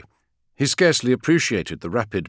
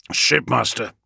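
growled; 5 semitones higher, 4 dB louder, slower than usual. Acted. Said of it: "growled Meduson".

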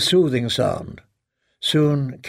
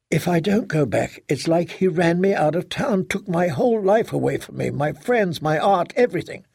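put-on mildly impassioned young woman's voice; resolute daughter; 4 semitones higher than usual. Daughter insisting she won't be scared off, resolute. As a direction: lift the pitch and press on with resolve.

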